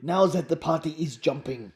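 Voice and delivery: put-on accented, measured mysterious foreigner; Romando. Romando seeks Alfie, put-on accented character voice. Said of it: "instantly dropped my character".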